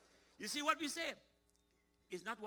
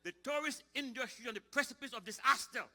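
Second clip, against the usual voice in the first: high, loud, declaiming minister; minister's speech; 6 semitones higher, 8 dB louder than usual. Retold or imitated. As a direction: proclaim it like a politician at a podium. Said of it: "I heard a minister of tourism saying".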